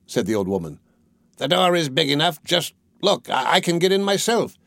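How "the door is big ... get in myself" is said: higher-pitched witch, lightly voiced; mildly exasperated storybook witch; impatient old witch. A narrator's reading. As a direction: show the girl up, a touch impatient and high. Witch impatiently showing Gretel.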